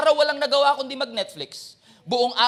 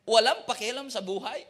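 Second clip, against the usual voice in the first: usual speaking voice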